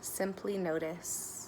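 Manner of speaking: measured guidance with long pauses; guided meditation. Real, not acted. Meditation guide leading listeners to notice their breath, calm guidance. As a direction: guide them gently into noticing the breath, unhurried.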